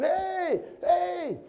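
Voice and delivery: high-pitched hollered call; screaming for help. Acted. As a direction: shout up to someone passing overhead. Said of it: "start screaming".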